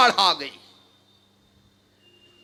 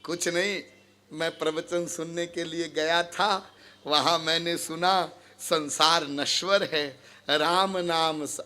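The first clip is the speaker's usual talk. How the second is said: low, soft, placating voice; meek explanation; 8 semitones lower, 8 dB quieter than usual. Acted. Visitor explaining himself to the angry householder, meek and quiet. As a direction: explain yourself quietly, pitched down.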